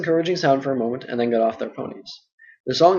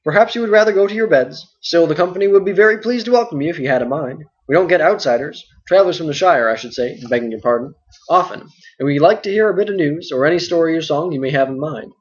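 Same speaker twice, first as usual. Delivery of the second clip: a louder, bustling landlord voice; hearty and full of chatter; talkative innkeeper Butterbur; 3 semitones higher, 4 dB louder than usual. Acted. Butterbur invites them.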